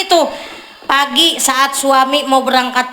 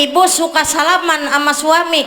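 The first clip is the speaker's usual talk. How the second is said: louder repeated question; 3 semitones higher than usual. Shown as a demonstration. Preacher repeats her question loudly to the ladies. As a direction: call the question out louder to the crowd. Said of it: "Umi kurang jelas jawabannya nih".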